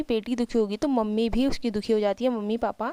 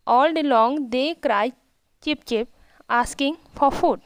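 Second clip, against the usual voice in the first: slow, careful read of each English word; slow reading aloud; much slower than usual. Shown as a demonstration. Teacher reading the English story line to her pupils, slow and careful. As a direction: read it out slowly for the class.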